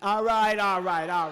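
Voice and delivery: all right shouted over the crowd, fading down; settling a roaring crowd; loud calming. Real, not acted.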